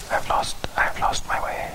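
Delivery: whispering while searching the page; whispered aside. Real, not acted. Preacher hunting for the lost passage, whispered aside to self. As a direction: mutter it in a whisper, voiceless.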